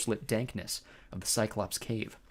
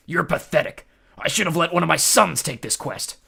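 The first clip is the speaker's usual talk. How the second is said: loud scornful war god; contemptuous; 6 semitones higher, 8 dB louder than usual. A narrator's reading. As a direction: sneer at her. Ares contempt.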